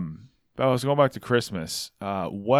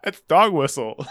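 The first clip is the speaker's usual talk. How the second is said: joking shout; 4 semitones higher, slower than usual. Real, not acted.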